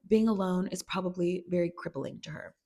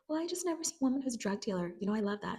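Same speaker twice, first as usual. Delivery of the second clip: higher, quick, bubbly gush; fast gushing; 3 semitones higher, 4 dB quieter, faster than usual. Retold or imitated. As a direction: rattle it off admiringly. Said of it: "She's like".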